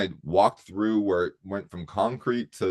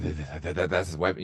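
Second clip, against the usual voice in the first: stammering guard; 3 semitones lower, 4 dB quieter, faster than usual. Retold or imitated. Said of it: "'cause that's how she sounded".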